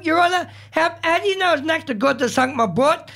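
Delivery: a touch of Scottish, indignant; Scottish accent. Retold or imitated. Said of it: "you're doing a Scottish accent there".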